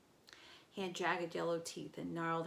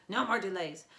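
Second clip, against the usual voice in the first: loud monster; 8 dB louder than usual. Acted. Monster insisting.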